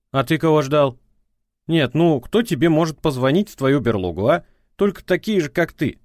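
prosecutor's voice. A narrator's reading. Ex-wife on the phone scolding him, prosecutorial tone.

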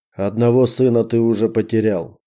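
icy, understated menace; cold. Acted. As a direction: say it coldly and flat out. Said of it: "холодно ответил бандит".

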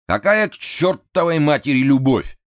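громкий высокий злой выкрик; взорваться от злости; злой хан. A narrator's reading. Хан в ярости. (гневный выкрик)

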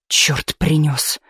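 slow, drawn-out curse; slow irritated oath; cursing. A narrator's reading. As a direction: swear under your strain, slowly. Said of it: "выругался заведующий труппой".

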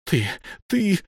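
high, sputtering fury; a wizard too furious to finish; choking with rage. A narrator's reading. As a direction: barely get the words out in anger. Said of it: "задыхался от гнева".

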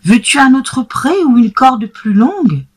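exclaiming. Acted. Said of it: "s'exclama monsieur Seguin".

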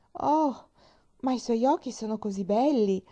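high, delighted admiration; admiring exclamation. A narrator's reading. Girl praising the woman's eyes and hair, admiring. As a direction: gush over each feature with lifted pitch. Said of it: "esclamò Pollyanna".

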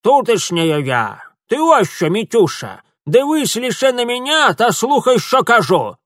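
loud, high crone ordering him; old Ukrainian woman lecturing the boy; stern old woman. Acted. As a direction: demand all his attention. Old woman sulky then commanding.

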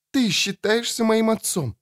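put-on high, shrill-free angry young woman's cry; furious daughter. Daughter accuses.

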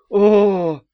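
loud disguised yawn as a moan; hyper-passionate oh. A narrator's reading. Daf faking a giant passionate oh. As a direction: blow it up into a huge moan. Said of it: "гиперстрастным".

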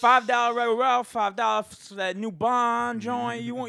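loud hustler sales pitch; street hustler. Pretend. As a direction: hawk five-dollar DVDs. Continuing bootleg seller.

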